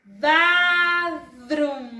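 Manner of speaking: "Bathroom" loud, both syllables held long; drill model. Shown as a demonstration. Teacher has pupils follow along, loud drawn-out model. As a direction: project "Bathroom" slowly for learners to copy. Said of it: "De nuevo, chicos, sigan conmigo".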